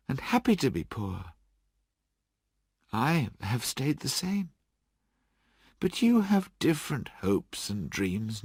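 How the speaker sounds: a lightly voiced young fiancée letting go sadly; lightly voiced young woman, hurt but calm. Belle voiced by reader.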